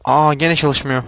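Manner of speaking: exasperated outburst. Real, not acted. Exasperated at machine not connecting.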